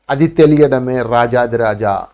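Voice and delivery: slow, weighty delivery; slow emphatic. Shown as a demonstration. Guru driving home his point to friends, slow and weighty. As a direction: lean on every word slowly. Restates the title grandly.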